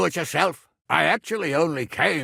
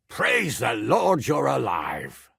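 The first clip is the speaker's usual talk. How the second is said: a glad, slowed call of relief; relieved exclamation; slower than usual. Acted. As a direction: greet him like a man saved from death. Relieved greeting after siege.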